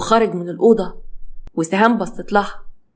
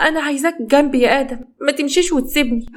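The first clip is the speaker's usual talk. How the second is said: high, clingy female character voice; pleading; 6 semitones higher than usual. Acted. Wife begging her husband not to leave, high pleading.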